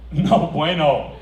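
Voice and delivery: slow, loud, laughing; mock broken Spanish. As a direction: spell it out for a foreigner.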